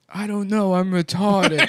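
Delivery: high dopey voice with a laugh. Pretend. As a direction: play the clueless fool. Acting the clueless guy.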